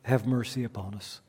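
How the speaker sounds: measured, reverent litany with falling line ends; solemn prayer. Acted. Litany prayer before the sermon.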